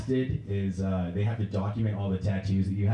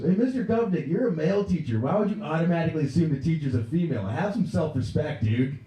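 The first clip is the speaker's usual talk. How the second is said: put-on high-pitched kid lecturing the teacher; scolding student; 7 semitones higher than usual. Another student scolding male teacher, high kid voice. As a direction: chide him in a high pupil's voice. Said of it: "This one kid goes".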